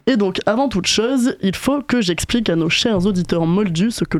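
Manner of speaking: raspy sore-throat voice; hoarse voice. Real, not acted. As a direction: speak through a sore throat. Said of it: "c'est pas ma voix normale, j'ai une angine".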